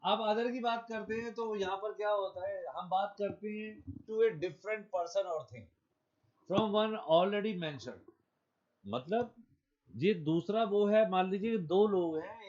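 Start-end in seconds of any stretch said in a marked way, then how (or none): 3.8-8.1 slow dictation. Shown as a demonstration. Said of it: "teacher reading definition aloud".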